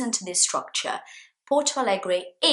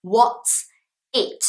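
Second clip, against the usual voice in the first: interested; 5 semitones higher than usual. Retold or imitated. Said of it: "And I'm like".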